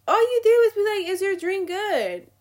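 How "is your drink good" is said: mock waiter. Mocking waiter asking about drink.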